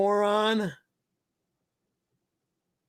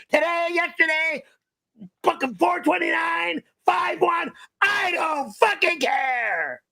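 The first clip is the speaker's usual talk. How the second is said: high, raging yell; furious shouting; 5 semitones higher than usual. Real, not acted. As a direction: scream threats in a fury. Raging at fan's joke super chat.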